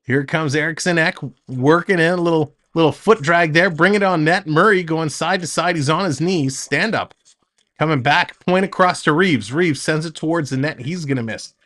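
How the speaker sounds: quick, lively hockey call; play-by-play. Acted. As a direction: call the action as it happens.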